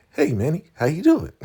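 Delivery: high, loud sing-out greeting; mock taunting. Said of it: "really taunting him and making fun of him".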